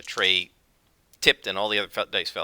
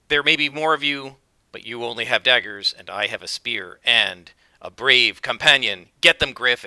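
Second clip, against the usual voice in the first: loud, confident battle taunt; brave warrior; 4 dB louder than usual. Acted. Wiglaf taunting cultists and sending Griff in, loud. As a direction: build to a loud command to the dog.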